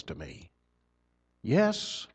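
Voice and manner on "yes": eager yes. Retold or imitated. People answering yes to his question.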